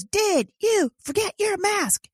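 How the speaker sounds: high, slow, mocking shout of the stranger; mock loud question. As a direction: imitate the man loudly asking about the mask. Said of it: "really loudly".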